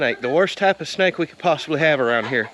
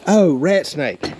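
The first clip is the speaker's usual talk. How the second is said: realizing; 2 semitones higher, 4 dB louder, much slower than usual. Real, not acted. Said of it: "I thought she said rattlesnake".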